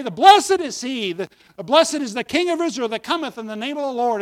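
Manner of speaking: crowd shouting back. Retold or imitated. Preacher acts the crowd on the other side, mildly shouting back. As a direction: imitate a crowd's answering cheer, strong at first. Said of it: "they would be shouting back and forth".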